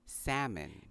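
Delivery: "salmon" as SAM-un; silent L. Shown as a demonstration. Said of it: "this word is pronounced".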